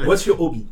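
"hobby" said with no h at all, as "obby"; without the h. Retold or imitated. The gynecologist's question quoted with the h dropped, "obby". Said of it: "Sans le H aspiré".

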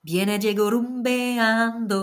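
put-on slow, relished Spanish accent. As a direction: drag out "rumbeando" like a rumba beat. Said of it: "j'aime bien prendre mon accent espagnol".

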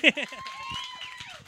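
very high laugh trailing after a shout. Real, not acted. Comic leaving the stage, high laugh.

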